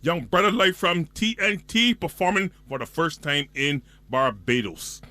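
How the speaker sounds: excited announcer hyping a boat party; event promo read. Acted. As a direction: pump it up like a radio promo. Reads an event ad.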